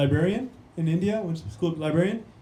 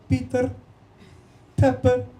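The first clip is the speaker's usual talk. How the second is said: put-on Spanish accent; 4 semitones higher, 3 dB louder than usual. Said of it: "E S L with five Spanish speakers".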